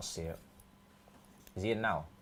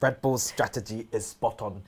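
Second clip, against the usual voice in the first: robot voice; 4 semitones lower, 7 dB quieter than usual. Pretend. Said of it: "I wanna hear another one".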